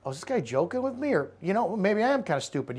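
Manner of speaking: quiet, unsure mock reaction; taken aback. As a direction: imitate someone knocked back on their heels. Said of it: "puts them on their heels to go".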